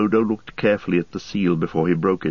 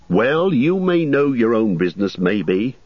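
higher, fussy innkeeper voice; innkeeper Butterbur; 5 semitones higher, 4 dB louder than usual. Acted. Landlord gossiping to Frodo about the ranger, raised fussy voice. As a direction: chatter like a nervous landlord.

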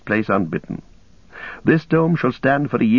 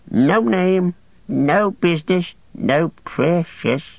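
Gollum, pitiful and bitter; 2 semitones higher, slower than usual. Acted. Starving captive whining, then sneering at his judges' justice. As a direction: moan of hunger, then mock the wise and just.

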